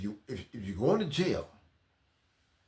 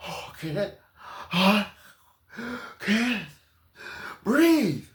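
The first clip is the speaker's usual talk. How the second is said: loud, high fake gasp; loud, high hammed-up cry; mock dramatic plea; 6 semitones higher, 4 dB louder, much slower than usual. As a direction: overplay it for the cops. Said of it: "I'm breathing real good".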